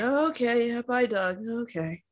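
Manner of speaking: lightly voiced half-listening parent; incoherent parents in bed. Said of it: "parents being completely incoherent".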